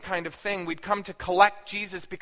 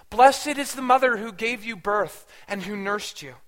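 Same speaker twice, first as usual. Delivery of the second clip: loud, emphatic proclamation; 3 semitones higher, 6 dB louder than usual. Retold or imitated. Woman in crowd praising Jesus's mother, loudly. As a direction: proclaim it out over a listening crowd. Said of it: "she said in a loud voice".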